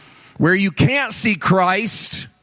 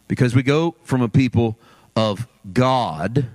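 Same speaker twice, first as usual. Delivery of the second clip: low voice, pausing between phrases; slow and careful; 9 semitones lower than usual. Real, not acted. Preacher explaining who we are, slowly and carefully. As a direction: weigh each phrase before giving it. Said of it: "slowly and carefully".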